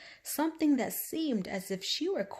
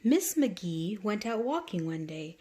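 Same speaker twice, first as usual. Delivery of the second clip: ordinary delivery, nothing marked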